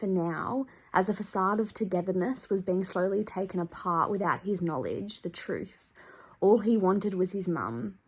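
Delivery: steady read-aloud of a memoir passage; book reading. Acted. Vlogger reading her favourite book to viewers, earnest reading. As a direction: read it to the camera, letting it land.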